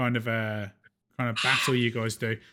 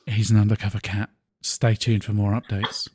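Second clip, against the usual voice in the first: news anchor; 5 semitones lower than usual. Pretend. Mock live news report.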